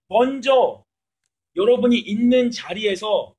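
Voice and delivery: loud, slow, deliberate words; loud emphatic preaching. Real, not acted. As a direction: drive each word home to the crowd.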